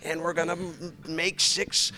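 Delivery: run-on, singsong parody of a vain preacher; sarcastic, breathless list of boasts; mocking self-promotion. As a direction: rattle it off like a self-satisfied preacher. Mocks self-promoting preachers' patter.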